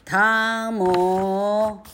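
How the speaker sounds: high, loud shout of a name; 大声喊汤姆. Acted. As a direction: shout for the boy into the garden. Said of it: "她大声喊".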